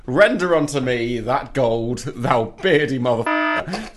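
slow, lightly voiced King James decree; mock biblical demand. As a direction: intone it like a mock prophet. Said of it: "He did indeed".

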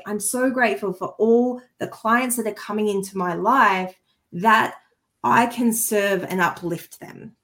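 moved, slowing at the end; sincere, touched affirmation; emotional gratitude. Shown as a demonstration. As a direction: let the emotion rise as you say it. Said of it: "I'm feeling the emotion".

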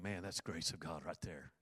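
half-whispered thought to himself; hushed inner thought. Retold or imitated. Pastor recalling his own thought, softly awed.

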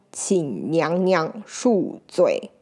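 slow, reverent apology on bended knee; humble plea. Acted. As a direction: beg pardon humbly and slowly. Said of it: "叩拜地说".

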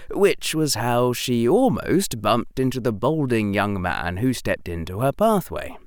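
ordinary delivery

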